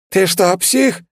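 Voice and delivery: high, loud stunned outcry; astonished yell. A narrator's reading. Demon cries out at the reckless hero, astonished. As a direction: cry out in disbelief. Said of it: "изумлённо выкрикнул он".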